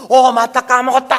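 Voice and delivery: very loud, high "oh right, I forgot"; startled realization. Acted. A runaway quail suddenly remembering its duty. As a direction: blurt it out as it suddenly clicks.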